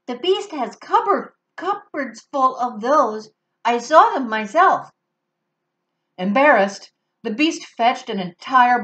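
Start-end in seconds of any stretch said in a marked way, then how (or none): 0.1-4.9 put-on higher, childlike werewolf voice; a small creature hopeful for soup; eager little werewolf.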